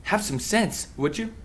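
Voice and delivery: sharp, slow "Stop", then tailing off. Acted. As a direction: cut in firmly, then ease down. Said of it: "raising my voice at you".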